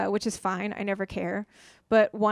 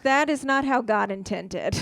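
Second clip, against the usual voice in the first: mock outrage. Comic retelling her shocked reaction, slow mock shout. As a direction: declare it slowly like a scandalized prude. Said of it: "even I was like".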